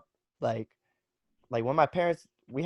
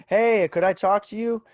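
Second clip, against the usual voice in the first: imitating neighbor; 9 semitones higher, 8 dB louder than usual. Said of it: "they're just like".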